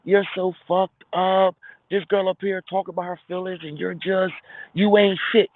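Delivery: high, scornful voice of offended women; scolding women. Retold or imitated. Women on the panel scolding a careless dude, high and scornful. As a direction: scold him like the whole room is on your side. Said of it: "the women gonna be like".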